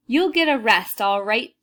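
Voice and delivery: loud, gruff threat. Acted. Guard bursting in to catch the thieves, shouting. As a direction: call it out as you burst in. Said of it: "shouted Mister Dart".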